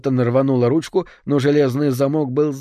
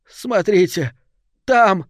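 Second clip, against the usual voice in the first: rising to a high, louder shriek of fear; terrified cry; 7 semitones higher, 4 dB louder, slower than usual. Acted. Fiona points at the stage in terror, shrieking. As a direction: point and scream at the thing. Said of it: "Голос её был как скрип когтей".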